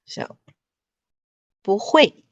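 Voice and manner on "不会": 不会 with 不 rising, 会 falling; bú huì demo. Shown as a demonstration. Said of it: "会，四声".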